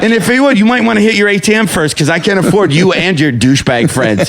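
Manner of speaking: high, fast sarcastic taunt; mocking retort. Comic mocking the millionaire at the bar, sarcastic and high. Mock retort to the rich guy.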